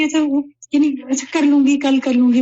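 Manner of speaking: airily brushing off the walk with अच्छा, कल कर लूंगी; half-hearted procrastinating shrug; putting it off. Retold or imitated. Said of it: "तो वो टाल रही थी".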